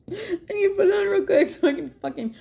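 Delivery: high, laughing through the words. Retold or imitated. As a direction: squeak it out while laughing.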